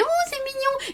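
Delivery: high, cooing aww; cooing over something cute. Retold or imitated. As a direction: coo like it's adorable. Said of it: "tu te dis".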